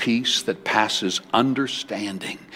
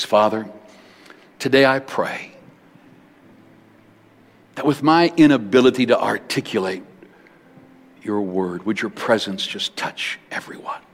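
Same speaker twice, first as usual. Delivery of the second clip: closing prayer. Acted. Prays over the congregation.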